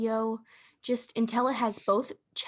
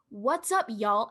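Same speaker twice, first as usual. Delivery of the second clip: attempted Southern accent; slower than usual. Shown as a demonstration. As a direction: demonstrate a Southern accent you can't really do. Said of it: "I can't do a Southern accent".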